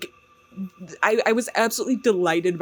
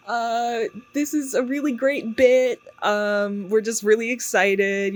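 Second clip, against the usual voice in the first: bubbly coworkers; 6 semitones higher, slower than usual. Retold or imitated. Coworkers' tape message continues.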